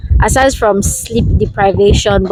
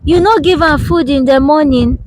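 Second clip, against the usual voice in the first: higher-pitched imitation of a mother; scolding mother; 5 semitones higher than usual. Daughter imitating her mother checking on the baby, high mock reproach. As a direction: mimic your mother questioning how you feed the baby. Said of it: "my mother will now come and say".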